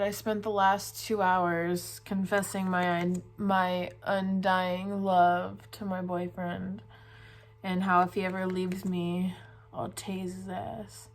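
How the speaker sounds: slow tipsy slurring. Real, not acted. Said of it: "I've been drinking".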